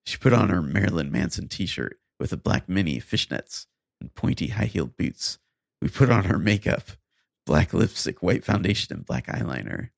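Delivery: deliberate, measured read-aloud; story narration. Acted. Podcast host reads bad fan fiction to co-host, story narration. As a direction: read each sentence out with careful pauses.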